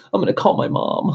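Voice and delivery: high, breathy mock of the other driver; mocking ditzy girl voice. Mocking the driver who hit his car, high girly voice. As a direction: whine it like a clueless girl.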